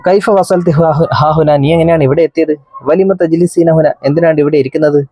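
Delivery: a hint of a kind officer asking; policeman's questions. Policeman asks girl again. (പോലീസുകാരൻ പെൺകുട്ടിയോട് ചോദിക്കുന്നു, അല്പം ഉയർന്ന സ്വരം)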